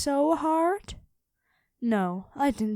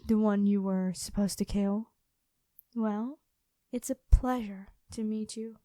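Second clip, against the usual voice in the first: lightly voiced dragon queen. Dragon queen toying with her captured hunter, calm and lightly menacing. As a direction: purr like a predator who has already won. Dragon reveals herself to knight.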